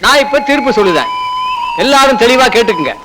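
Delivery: solemn village headman pronouncing judgment; formal verdict. Acted. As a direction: announce each ruling firmly.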